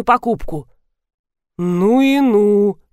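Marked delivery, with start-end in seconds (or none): 1.6-2.8 drawn-out, amazed bass; slow boom of astonishment. A narrator's reading. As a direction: draw it out like a big bass-voiced man. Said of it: "пробасил Антонов".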